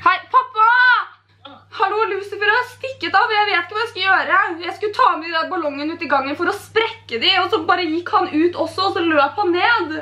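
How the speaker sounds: put-on distressed wail to dad; whiny mock alarm; feigned panic. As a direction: pretend the cat has just escaped. Fakes panic about runaway cat.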